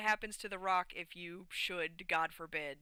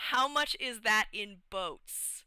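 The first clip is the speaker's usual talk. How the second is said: naive question; 3 semitones higher, 6 dB louder, slower than usual. Retold or imitated. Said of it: "is what Arrakis says".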